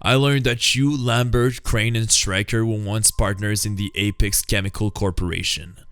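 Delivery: the hero unmasking the villant's plot; Batman explaining. Acted. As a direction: lay out the crime calmly.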